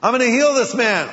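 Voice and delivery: Jesus voiced.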